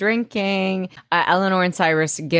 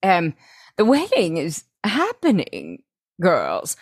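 hammed-up throat-clearing, then swooping pitch; lightly voiced mother calling the girls to attention; Eleanor; 2 semitones higher than usual. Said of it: "And then Eleanor's like".

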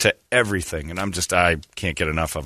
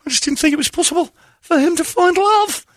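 moved parent. Retold or imitated. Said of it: "when the parents start talking".

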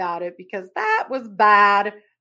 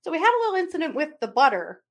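sheepish confession; 9 semitones higher, 5 dB louder than usual. Retold or imitated.

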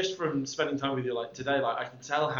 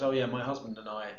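offhand, understated quote; casual mention; 3 semitones lower than usual. Retold or imitated. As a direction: drop it in casually, as nothing special. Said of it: "he just casually blokes".

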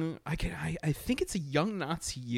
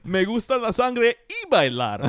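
Latino Dracula voice; 7 semitones higher, 5 dB louder than usual. Pretend. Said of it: "Latino Dracula".

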